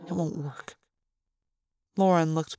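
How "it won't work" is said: tired, dropping to near silence; worn-out refusal, trailing softer; weary. Acted. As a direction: let it fade out, exhausted. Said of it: "shook my head wearily".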